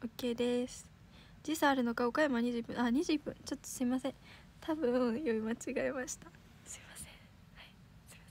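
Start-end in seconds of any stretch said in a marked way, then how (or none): 4.6-8.2 embarrassed whisper. Real, not acted. Idol whispering sorry to fans after a misread. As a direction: whisper it, red-faced with embarrassment.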